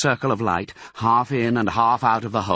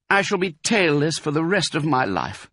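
higher-pitched self-pitying lament; glum fox; 8 semitones higher than usual. A narrator's reading. Mister Fox tailless for life, glum. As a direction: mourn the loss, pitched up. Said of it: "He looked very glum".

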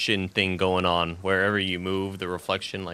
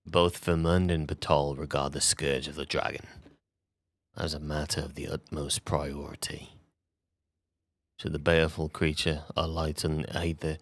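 lower, grave fantasy narrator voice; dramatic voice acting; 4 semitones lower than usual. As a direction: read it like a game's epic voiceover. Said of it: "Put that on the voice acting reel".

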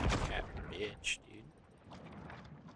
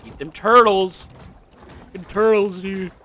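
hyped shout; 9 semitones higher, 14 dB louder than usual. Real, not acted. Hyped attacking turtles in game.

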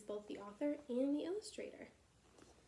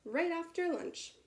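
higher, slow sly snake; 8 semitones higher, 4 dB louder, slower than usual. A narrator's reading. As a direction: drawl it slyly like a snake. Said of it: "said the snake".

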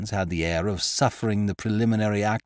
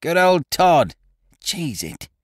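heckler shout; 8 semitones higher, 5 dB louder, slower than usual. A narrator's reading.

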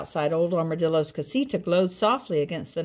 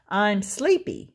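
hurt; 2 semitones higher than usual. Acted. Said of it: "sounding hurt".

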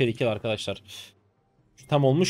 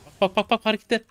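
excited urging; 9 semitones higher than usual. Real, not acted. Excitedly urges viewers to watch.

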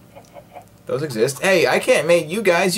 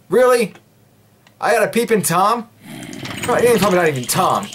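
sassy; 5 semitones higher, faster than usual. Pretend. Sassy reaction to a peeping Tom.

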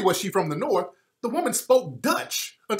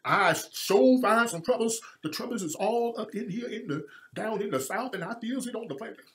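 Jesse Lee Peterson; 3 semitones higher than usual. Retold or imitated. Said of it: "Got her sound like Jesse Lee Peterson".

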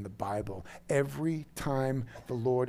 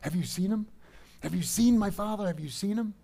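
hushed mock panic, rising in pitch; acted freaking out; 5 semitones higher than usual. Daughter searching for the father she fails to recognize, acted panic. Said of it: "And she was freaking out".

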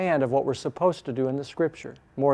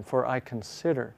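CONSIDER leaned on; stress on CONSIDER; 2 semitones lower, 5 dB quieter than usual. Shown as a demonstration. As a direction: put the weight on the word consider. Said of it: "emphasize a new word each time".

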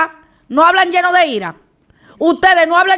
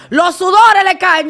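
ordinary delivery

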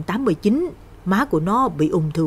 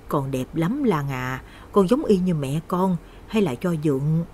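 creepy stepfather; 4 dB quieter than usual. Acted. Drunk stepfather creeping on Lan.

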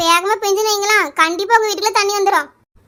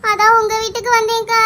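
tearful wailing. Acted. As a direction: whine through mock tears to a neighbour. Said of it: "ஏம்மா அழுறா?". (அழுதுகொண்டே புலம்பும் குரல்)

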